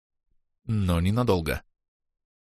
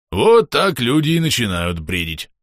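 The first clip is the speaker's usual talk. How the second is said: нравоучительно; 3 semitones higher, 4 dB louder than usual. Acted. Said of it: "нравоучительно заметил казначей".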